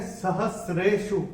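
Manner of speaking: "सहस्रेषु" slow, with sr and no t; careful pronunciation. Shown as a demonstration. Teacher points out the tricky cluster, "सहस्रेषु" said with sr. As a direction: say "सहस्रेषु" slowly, s running straight into r. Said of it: "इसमें एक ही चीज का ध्यान रखिएगा".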